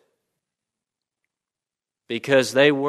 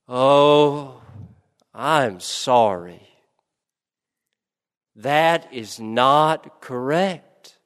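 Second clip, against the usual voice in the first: gently; slower than usual. Acted. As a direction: let her down gently and slowly. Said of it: "the teacher said gently".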